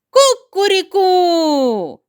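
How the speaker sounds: high, loud, drawn-out cock-a-doodle-doo; rooster crow. A narrator's reading. Rooster on the biggest wheel crows, loud rooster crow. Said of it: "ляскає крилами і кричить".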